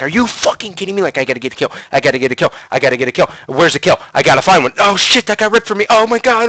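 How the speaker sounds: rising, mock-panicked self-talk; retold panic. Gamer reliving his desperate hunt for a kill, panicking. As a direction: build from disbelief to high, frantic alarm. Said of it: "then I start panicking".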